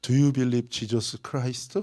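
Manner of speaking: put-on thick, heavy Korean accent on English. Retelling approaching a woman with a question in a heavy Korean accent. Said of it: "이 된장 발음으로".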